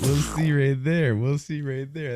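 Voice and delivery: high, loud, slow announcer call; big drawn-out game-show wrap-up; hyped-up host. Real, not acted. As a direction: stretch it out for the audience. Host excitedly wraps up the game.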